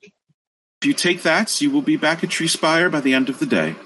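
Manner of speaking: a kindly deity thanking the heroes; warm serene goddess voice. Acted. GM plays NPC for many lines.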